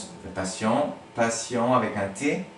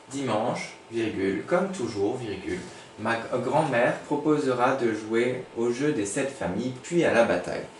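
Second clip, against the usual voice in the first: dictating. Shown as a demonstration. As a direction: read it out for the class to write. Teacher reads the dictation.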